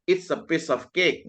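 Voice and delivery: each word slow and clear; slow demo delivery. Shown as a demonstration. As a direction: spell it out slowly for learners. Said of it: "ketika dia mengatakan".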